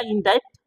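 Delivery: इंडायरेक्ट with the k sound voiced before t; mistaken pronunciation. Teacher mimics pupils misreading, इंडायरेक्ट with audible k. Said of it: "तो आप पढ़ लीजिएगा".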